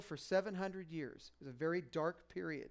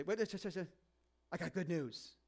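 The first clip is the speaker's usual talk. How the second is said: slow angel announcement; 3 dB quieter, much slower than usual. Retold or imitated. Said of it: "the angel will say".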